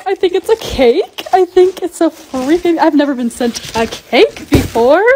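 slow, loud and lifted with delight; real giddy excitement over a gift; excited. Real, not acted. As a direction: savor each word, thrilled. Opening a surprise giant cake.

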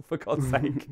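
amused, exasperated aside; laughing exasperation. Real, not acted. Co-host laughing at man who forgot his point, amused exasperation. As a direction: say it through a laugh.

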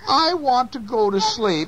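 high little mouse voice; a tiny mouse begging for sleep; high-pitched storybook mouse; pleading mouse. A narrator's reading.

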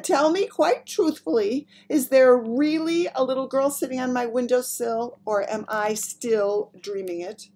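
high, strained, loud plea; strange strangled voice. A narrator's reading. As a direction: squeeze the words out in shock. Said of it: "strangled sort of whisper".

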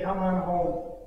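low, soft, gentle call; tender invitation. Acted. Preacher voicing Jesus calling the listener home, tender. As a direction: drop the force and invite gently.

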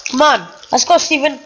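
chewing while talking; words round a mouthful; mouth full. Real, not acted. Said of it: "Okay, I swallowed my food".

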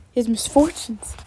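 slow, scornful echo; contemptuous. Acted. Darcy scornfully repeating her phrase back, slow and contemptuous. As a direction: sneer at the words as you repeat them. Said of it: "repeated Darcy, contemptuously".

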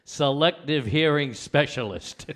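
loud, slow label reading. Retold or imitated. Reading the wife's gift label aloud, slow and loud. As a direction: announce the gift's slogan. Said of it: "it says".

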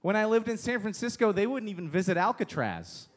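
usual speaking voice

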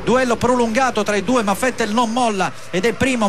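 brisk excited Formula 1 play-by-play; live race commentary. Acted. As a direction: call the race start live, fast and lively.

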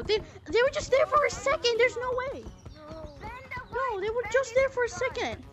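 excited. Real, not acted. Ghost appeared and vanished.

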